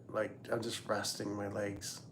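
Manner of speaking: talking with dip in mouth; words round a mouthful of dip; chewing tobacco. Real, not acted. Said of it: "I have dip in my mouth".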